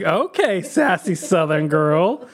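drawn-out, sassy mock surprise; sassy retort. Reacting to the girl cutting in, drawn-out sass. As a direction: stretch it out, teasingly impressed.

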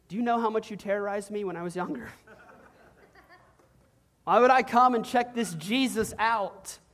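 fast, laughing mock disbelief. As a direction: scoff at the older brother through a laugh. Sibling recalls brother's bullying.

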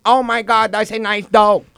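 lightly done bad Asian accent; generic mock Asian accent. Shown as a demonstration. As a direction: demonstrate a stereotyped Asian accent. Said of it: "I'll do Asian".

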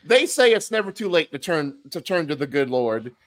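playful mock sermon; mock preacher. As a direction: preach it like a revival, tongue in cheek. Mock sermon about friend converting.

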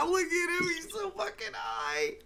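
very high, squeaky laughing voice; high and thin, cracking up; helpless laughter. Real, not acted. Cracking up at stoned stranger.

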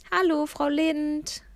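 slow, lifted friendly greeting. A narrator's reading. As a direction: call out a kind hello across the street. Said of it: "rief ich ihr freundlich zu".

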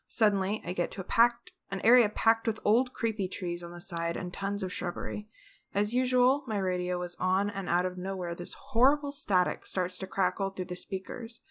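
soft, even story narration; story reading. Acted. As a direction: read the ghost tale quietly. Reads a ghost story aloud.

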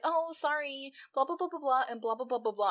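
a light mocking whine; mocking excuse. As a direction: brush it off like a lame excuse. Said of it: "they're like".

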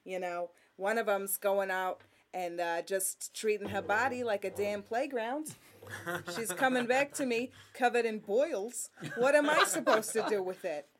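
lightly voiced New Jersey lady gossiping; a hint of a nagging New Jersey mom. New Jersey bubbie complaining to friends about the kids, lightly voiced. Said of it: "I love doing a lady from New Jersey".

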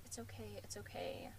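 very soft, hushed reassurance; retold whisper. Retelling how he comforts her as he leaves, whispered. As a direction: drop to a near-whisper, imitating a gentle comfort. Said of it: "he whispers".

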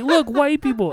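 high, loud mock-excited call; imitated cop holler. Cop pointing at the two riders, excited holler.

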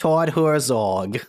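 slow, drawn-out Boston Todd Herzog; Boston accent. Shown as a demonstration. Host says Todd Herzog in mock Boston accent. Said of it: "how would you say that as a Bostonian".

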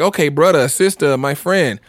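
lightly put-on African accent; a hint of an African accent, slowing down. Imitating people welcoming a friend in, slight African accent. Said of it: "like, a little African accent with that".

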